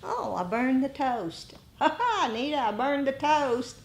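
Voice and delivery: light, breezy, laughing it off; chuckling at a small mishap; carefree laughing. Pretend. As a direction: shrug it off with a giggle. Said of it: "sometimes it's like".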